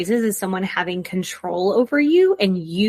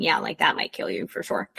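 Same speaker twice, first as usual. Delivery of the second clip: whispered aside; 5 semitones lower, 6 dB quieter than usual. Real, not acted. Aside about cocaine killing you.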